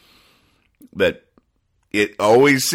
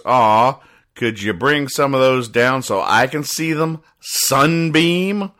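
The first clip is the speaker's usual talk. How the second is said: put-on baby voice; 4 semitones higher, slower than usual. Baby asks a sunbeam.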